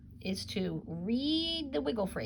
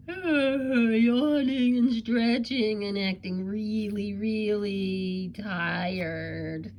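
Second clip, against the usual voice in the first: yawny, drawn-out sleepy voice; hammed-up sleepy yawning; mock tired yawn; 5 dB louder, much slower than usual. Shown as a demonstration. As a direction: act out being really tired while stretching. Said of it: "were you jumping".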